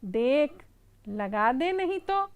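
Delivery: mouse threat. Acted. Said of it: "चूहा बोलता है कि".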